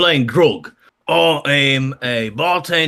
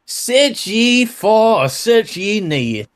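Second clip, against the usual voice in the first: dramatic reading; 7 semitones higher, slower than usual. Shown as a demonstration. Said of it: "would ... not mind reading?".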